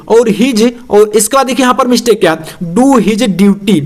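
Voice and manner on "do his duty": slow dictation. Shown as a demonstration. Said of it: "dictating slowly".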